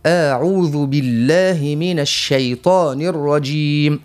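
slow, drawn-out recitation; Quran recitation. Shown as a demonstration. Teacher shows listeners the recitation, slow and drawn out. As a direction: recite it slowly with full vowels. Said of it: "نقول".

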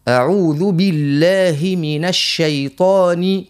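slow, drawn-out recitation. Shown as a demonstration. Teacher recites the correct way, slow and full. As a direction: recite slowly, every vowel complete. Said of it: "كيف كيف النون هنا المكسورة".

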